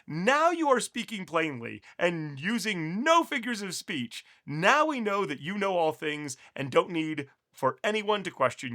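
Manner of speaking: slow, measured Bible reading; scripture reading. Acted. Teacher reads scripture aloud to viewers, slow and measured. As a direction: read the passage deliberately to the class.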